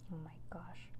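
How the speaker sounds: breathless real whisper. Real, not acted. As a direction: hush it out in awe. Thrilled listener reacts to the story.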